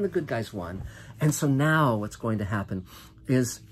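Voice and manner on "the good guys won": excited. Real, not acted. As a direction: sing out the win. Repeated, first cheered.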